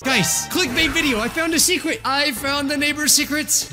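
high hyped YouTuber voice; clickbait hype. Pretend. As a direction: sell it like clickbait.

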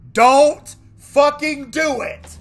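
slow, loud, high warning; tense shout. Real, not acted. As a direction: yell it slowly as a threat. Warning the game not to scare.

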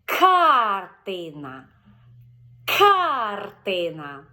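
Картина said very slowly, loud hard К at the start; повільно, з наголосом на К; slow, stressed first syllable. Shown as a demonstration. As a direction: stretch Картина slowly for the child. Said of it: "і кажемо".

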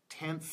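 "tenth" said alone with an audible final th; final th demo. Shown as a demonstration. Teacher models next word for learners, "tenth" with final th. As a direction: model "tenth", letting the last th hiss out. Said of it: "it comes at the end".

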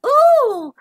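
high, slow giggly words; giggling. Acted. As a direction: giggle through it. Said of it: "she giggled".

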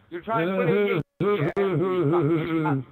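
witch voice. Acted. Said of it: "literally sounded like the Wicked Witch of the West".

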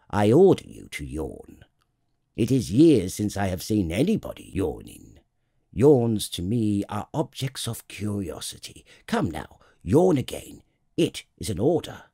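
lightly voiced royal command, opening loud; commanding king. King commands the tired prince to yawn, mildly imperious. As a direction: issue orders with a touch of pomp.

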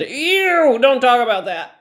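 high, loud, grossed-out whine; squeamish scientist voice. Retold or imitated. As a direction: shriek it like a squeamish man. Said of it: "male scientists said".

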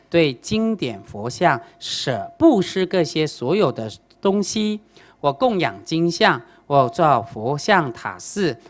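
slow, measured sutra reading; scripture recitation. Acted. Master reciting the Ksitigarbha Sutra to the grieving father, slow measured recitation. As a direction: intone the scripture slowly.

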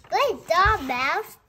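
high, loud cheer; cheering praise. Acted. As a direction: cheer the little mouse on. Praising mouse in story.

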